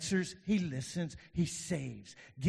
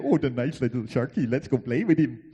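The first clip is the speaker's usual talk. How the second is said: mock beachgoer; 6 dB louder than usual. Mocking beachgoers near a shark.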